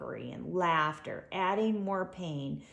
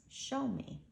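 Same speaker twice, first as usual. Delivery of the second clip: patient; 6 semitones higher, 6 dB quieter than usual. A narrator's reading. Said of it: "Patiently, Kola says".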